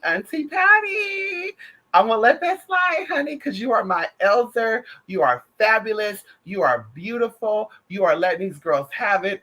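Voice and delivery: talking up to Auntie Patty, high and adoring; gushing over auntie. Real, not acted. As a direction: sing her praises, stretching every word up high. Gushing praise to an elder.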